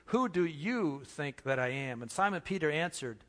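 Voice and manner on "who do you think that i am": "you" stressed in "who do you think that I am". Shown as a demonstration. Pastor repeating Jesus' question, weight on "you". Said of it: "Emphasize the word you".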